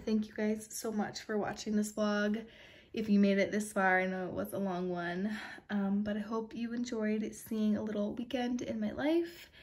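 soft sign-off with retainers in; words slightly muffled by retainers. Real, not acted. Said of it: "Sorry if I sound funny, I have my retainers in".

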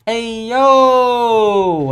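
loud, high drawn-out cry; startled shout. Real, not acted. Gamer startled in a horror game, startled shout.

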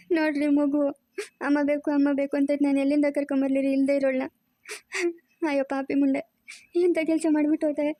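weeping, grieving over the disgrace; crying lament. Acted. Grandmother lamenting to her husband about the runaway daughter-in-law, crying. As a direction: cry it out in bitter grief.

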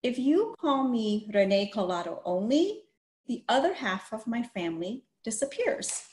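even, read-aloud storybook voice; story narration. A narrator's reading. Teacher reading a picture book to children, storytelling voice.

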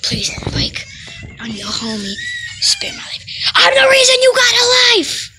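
begging, rising to a high shout; desperate pleading. Acted. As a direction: plead for your life, then yell. Begging for his life.

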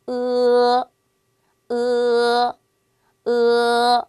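으 as a single held sound, loud; Chinese e. Shown as a demonstration. Teacher models 으 for students, loud and steady. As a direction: model 으 as one pure sound. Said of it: "영어식의 A가 아니라".

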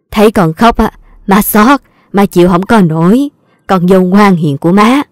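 a hint of a fussing old mother, a bit fuller; lightly voiced doting mother-in-law. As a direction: coo over her like a doting mother-in-law. Mother-in-law comforts crying daughter-in-law.

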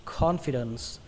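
CONFIDENCE opening on a puffed "khon"; aspirated KH. Shown as a demonstration. Teacher modelling the corrected word, aspirated KH. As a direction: say "confidence" with breath after the K. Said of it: "Các bạn nhớ khờ nó ra nhé".

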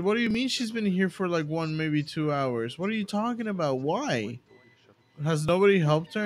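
mildly acted disbelief, pitch jumping up; retold incredulous questioning. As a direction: replay your baffled questioning of a coworker. Retells own incredulous questioning of coworker.

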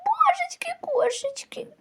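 breathless whispered dismay; shocked whisper. Acted. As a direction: whisper it in horror. Mother shocked by fever.

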